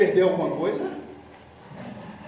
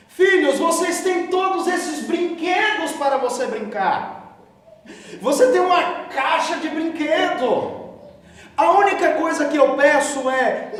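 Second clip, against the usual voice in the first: fatherly God warning; 8 semitones higher, 4 dB louder than usual. Acted.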